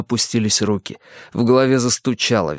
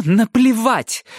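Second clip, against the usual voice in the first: very slow, louder snarled retort; angry snap; 14 semitones higher, 4 dB louder, much slower than usual. A narrator's reading. Mother snapping at her daughter, slow loud angry retort. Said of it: "огрызнулась Джеки".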